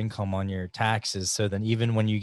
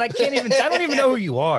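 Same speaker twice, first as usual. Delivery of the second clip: imitated bewildered reply; 13 semitones higher, 4 dB louder than usual. Retold bar confrontation, acted reply.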